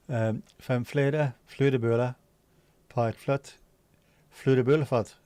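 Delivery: stumbling through Dutch sounds; Dutch tongue twister. Shown as a demonstration. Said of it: "tongue twister we torture newcomers with".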